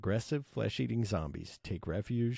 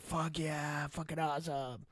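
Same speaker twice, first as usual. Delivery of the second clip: mock cheer; 8 semitones higher than usual. Viewer reacting to the hero moment, mock cheer. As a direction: imitate a thrilled fan cheering without real volume.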